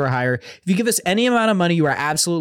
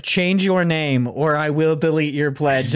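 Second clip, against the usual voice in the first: mock stern; 2 semitones lower, slower than usual. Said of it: "the welcoming letter for them is just like".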